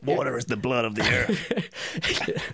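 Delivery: slow, grave tough-guy line; mock gruff tough guy. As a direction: intone it like a brooding action hero. Mock Sean Penn line.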